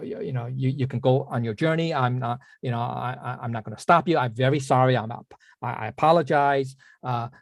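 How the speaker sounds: mildly apologetic, hesitant and stumbling. Retold or imitated. Rich man saying sorry to the young man, mildly apologetic. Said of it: "very apologetic and immediately say".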